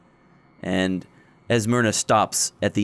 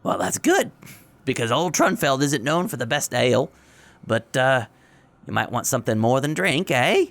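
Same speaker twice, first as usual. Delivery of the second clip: odd woman voice; 3 semitones higher than usual. Acted.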